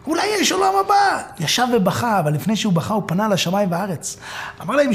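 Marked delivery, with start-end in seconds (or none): 0.1-1.2 a desperate shout toward the heavens; despairing shout. Acted. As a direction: cry it out as the truth hits. Despairing cry of realisation.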